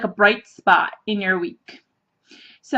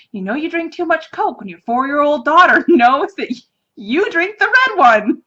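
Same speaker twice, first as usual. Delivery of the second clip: higher, laughing through the words; amused punchline; 5 semitones higher, 4 dB louder than usual. Real, not acted. Admitting the daughter knows Mom's Coke, laughing exasperation.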